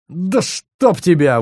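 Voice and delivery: dragged-out angry curse; cursing. A narrator's reading. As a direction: spit the curse out slowly. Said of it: "выругался Хьюз".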